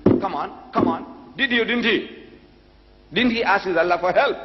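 mildly exasperated, high-pitched prodding; impatient. Retold or imitated. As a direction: press for an answer like an exasperated debater. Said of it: "the Reverend couldn't hold his peace".

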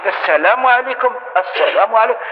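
the version to avoid; wrong salam demo. Shown as a demonstration. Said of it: "هذه ما كاش منها".

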